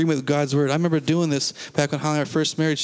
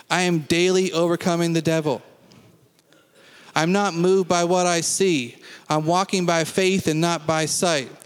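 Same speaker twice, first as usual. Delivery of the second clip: faith confession. Acted. Pastor leading the standing congregation in declarations, measured and firm. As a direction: proclaim every line as settled truth.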